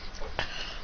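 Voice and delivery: quiet breathy maniacal laugh; understated villain cackle. Acted. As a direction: cackle softly like a mock villain. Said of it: "with a maniacal laugh".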